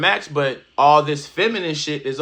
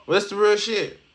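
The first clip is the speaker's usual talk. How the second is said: louder, higher declaration; emphatic; 6 semitones higher, 4 dB louder than usual. Real, not acted. Commentator stresses his point to viewers, loud and high. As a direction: punch it out as a hype line.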